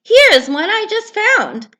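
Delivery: busy little raccoon; quick raccoon. Acted. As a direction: rattle it off eagerly.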